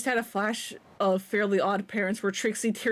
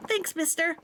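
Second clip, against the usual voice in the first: put-on higher child's voice, thankful; a kid thanking the mister, higher; grateful kid; 6 semitones higher than usual.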